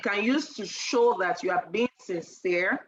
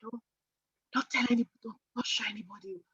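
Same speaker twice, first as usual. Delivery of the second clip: confidential sales whisper; faster than usual. Retold or imitated.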